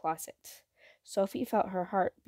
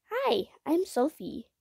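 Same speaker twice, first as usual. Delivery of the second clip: put-on high, slow, friendly little girl; lightly voiced young girl greeting a creature; little girl Sophie; 8 semitones higher than usual. A narrator's reading. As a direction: greet the monster gently as a small girl. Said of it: "she said".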